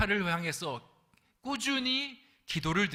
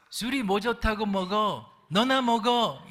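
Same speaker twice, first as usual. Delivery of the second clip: higher, louder, slow retort; cheeky newcomer; 7 semitones higher, 6 dB louder, slower than usual. Retold or imitated. Newcomer snaps back at the senior, loud and cheeky. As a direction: toss it back at him. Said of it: "신참 외국인이".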